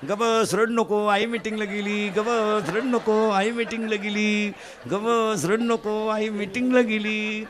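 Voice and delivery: put-on slow, sing-song hushing of a crying child; soothing a baby. Shankar soothes the crying baby while Parvati is away, in a slow sing-song. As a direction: rock the baby with the words.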